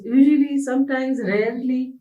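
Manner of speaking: "usually" high and loud, then easing down; listing frequency words. Shown as a demonstration. Teacher listing adverbs of frequency for students, emphatic. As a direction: call out each word like a list. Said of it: "That would all be related to adverb of frequency".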